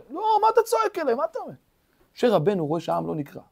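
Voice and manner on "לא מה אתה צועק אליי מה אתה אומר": God's rebuke. Acted. God rebukes Moses, quoted.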